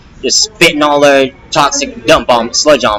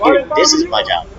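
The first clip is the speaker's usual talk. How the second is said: high, indignant comeback, a touch mocking; exasperated retort; 12 semitones higher, 3 dB quieter than usual. Rapper answering critics who call him jobless, high exasperated retort. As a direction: shoot it back up high like it's obvious. Retelling his reply to the critics.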